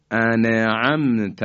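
انعمت said ane-amt, a vowel put on the nun; wrong voweled nun. Shown as a demonstration. Teacher showing the second mistake, moving the nun. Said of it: "اینم صحیح نیست".

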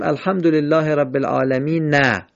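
"العالمین" halted on a voiced short a, alamina; wrong stop with vowel. Shown as a demonstration. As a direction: stop after "العالمین" with its fatha sounded out as "نه". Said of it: "نمیشه بگیم".

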